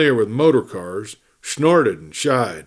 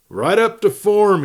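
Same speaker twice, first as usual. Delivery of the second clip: bright sing-song, pitched higher; a cowboy answering the lawmen cheerfully; 10 semitones higher, 4 dB louder than usual. A narrator's reading. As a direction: toss it off gaily, almost singing. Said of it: "he sang cheerfully".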